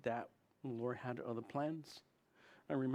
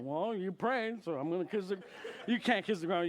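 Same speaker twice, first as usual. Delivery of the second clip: teasing laugh; 5 semitones higher, 4 dB louder than usual. Retold or imitated. Teasing Ben after landing, laughing through the words. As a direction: chuckle through it while ribbing him. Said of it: "I was messing with him".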